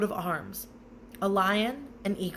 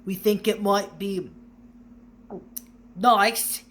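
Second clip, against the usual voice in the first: forced friendliness; 2 semitones higher, 5 dB louder than usual. A narrator's reading. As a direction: sound nice through gritted teeth. Vernon forcing a painful smile.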